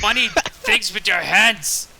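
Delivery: slow, drawn-out baffled holler; mock screaming. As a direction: call it out slowly so it carries. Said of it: "Are you seriously screaming that?".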